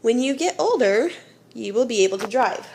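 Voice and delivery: put-on slight pause after "older"; pause after the clause. Shown as a demonstration. Teacher to class, pausing after "older". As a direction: let the pause after "When you get older" be heard. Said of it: "But just listen here".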